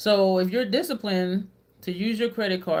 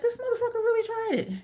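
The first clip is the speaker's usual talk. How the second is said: much higher, stunned; stunned disbelief; faster than usual. Retold or imitated. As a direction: react as if you can't believe his nerve. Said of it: "I was like".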